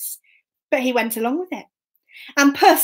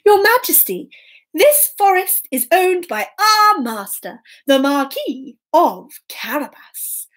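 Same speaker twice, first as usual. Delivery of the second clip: higher, deliberate announcing voice; lightly voiced woodcutters answering a king; storybook woodcutters; 5 semitones higher than usual. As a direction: announce it ceremoniously to royalty. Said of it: "they looked at the king and they said".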